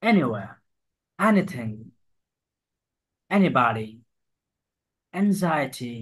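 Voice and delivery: first syllable of each word hit; stressed first syllable. Shown as a demonstration. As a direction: push the first sound. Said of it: "stress দিয়ে পড়তে হবে".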